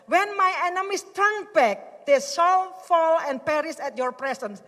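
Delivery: high, loud, slow verse; preaching at full force. Acted. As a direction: proclaim victory over enemies. (membacakan ayat dengan lantang dan lambat)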